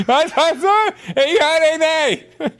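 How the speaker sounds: put-on shrill, loud old man shouting; deaf old man voice. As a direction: play a deaf grandpa yelling. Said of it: "ich muss mal kurz die Zähne reinmachen".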